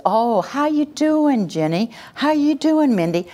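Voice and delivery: high, sing-song, overly bright hellos; fake cheery greeting. Acting falsely cheerful greeting.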